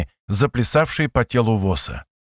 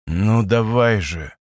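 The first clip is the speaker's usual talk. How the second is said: slow, lower, through gritted teeth; 3 semitones lower, slower than usual. Acted. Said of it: "проговорил Вос сквозь зубы".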